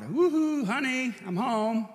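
high, loud, slow sing-song call home; hollered greeting. Retold or imitated. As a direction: call out cheerfully across the house. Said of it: "And I hollered".

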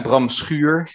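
Bram Schuur said the Dutch way; Dutch pronunciation. Shown as a demonstration. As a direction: Schuur with the Dutch vowel and rolled r. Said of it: "That's how you, you know, pronounce that in Dutch".

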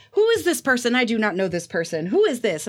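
high, baffled mock uncle; puzzled uncle. Uncle wonders who Virginia is, high baffled voice. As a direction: imitate the uncle reading the newsletter. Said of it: "he goes".

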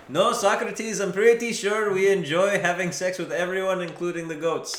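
high, loud retort to a philosopher; indignant villager. Acted. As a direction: protest as a villager, pitched well up. Villagers answer back to Socrates.

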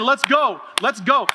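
mock cheering. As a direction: cheer the runner on from the stands. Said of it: "Hebrews in the grandstand saying".

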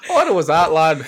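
put-on Scottish accent. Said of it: "it's gotta be in Scottish".

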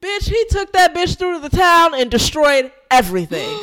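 loud, high and thrilled; breathless gossip, voice shooting up; excited. Real, not acted. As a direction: tell it like it's the wildest news ever. Excited retelling of bulldozer rampage.

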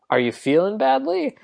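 put-on light, amateur Italian accent. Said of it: "I can do a little Italian".

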